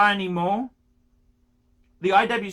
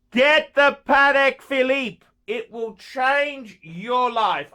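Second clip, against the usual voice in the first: emphatic closing; 5 semitones higher, 4 dB louder, slower than usual. Real, not acted. Final sign-off urging.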